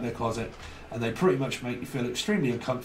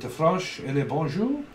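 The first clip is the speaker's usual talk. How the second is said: higher-pitched mock-French accent; 4 semitones higher than usual. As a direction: play up a comic French accent. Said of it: "like, uh, the French accent".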